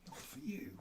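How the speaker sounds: high squeak at the puppy; high, soft mock telling-off; squeaky scolding. Real, not acted. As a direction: squeak it out to keep the dog off the medicine. Keeping medicine from dog.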